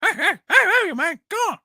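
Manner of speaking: a quick mock Scarface accent call-out; a playful Scarface accent impression. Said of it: "You want me doing Scarface accent?".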